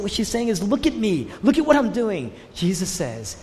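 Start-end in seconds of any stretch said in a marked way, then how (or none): 0.6-2.3 mildly exasperated mock complaint; a touch of acted frustration; frustrated. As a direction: imitate someone wanting notice for their work. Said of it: "Martha's frustrated".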